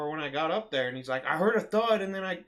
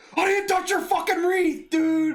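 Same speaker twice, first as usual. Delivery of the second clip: shrill top-of-the-lungs scream, very loud and high; 12 semitones higher, 8 dB louder than usual. Retelling shouting at a customer: imitating a shout at top of lungs. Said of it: "at top of my lungs".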